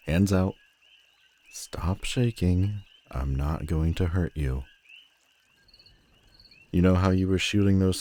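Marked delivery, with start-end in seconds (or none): 0.1-2.8 slow gentle whisper; slow it right down and whisper; whispered reassurance. Acted. Villain calming the trembling hero, slow whisper.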